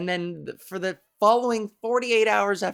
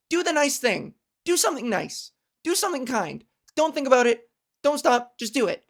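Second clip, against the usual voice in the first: inner voice urging; 4 semitones higher than usual. Retold or imitated. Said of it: "a voice that goes".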